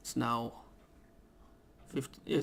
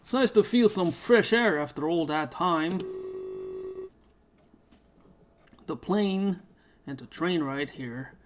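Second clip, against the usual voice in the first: a touch higher, casual first-person reading; lightly voiced game character; 3 semitones higher than usual. The newly arrived traveller musing on the air, lightly voiced. Reads the main character's lines.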